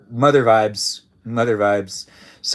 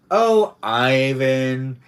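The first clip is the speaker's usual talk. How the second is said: coy drawn-out sigh; 5 dB louder, much slower than usual. Shown as a demonstration. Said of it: "Is that how you're saying".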